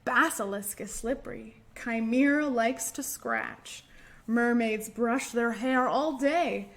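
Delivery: lilting storybook read-aloud; sing-song story time voice; reading a rhyme to children. Acted. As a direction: read it like a picture book to little ones.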